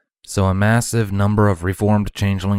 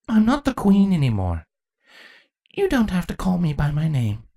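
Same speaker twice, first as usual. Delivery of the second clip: gently; 11 semitones higher than usual. A narrator's reading. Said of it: "Chrysalis said gently".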